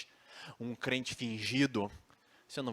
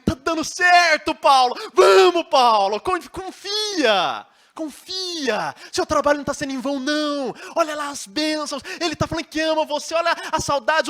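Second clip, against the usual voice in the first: much higher and louder, half-sung excitement; rally Paulo with good news; exuberant, shouting cheer, stretched "confia"; joyful encouragement; 13 dB louder than usual. Acted.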